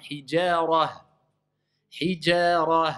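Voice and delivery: HIJARA with thin JA, then a heavy RA closing on H. Shown as a demonstration. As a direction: thicken only the last syllable of Hijara. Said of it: "je passe à mufakhama".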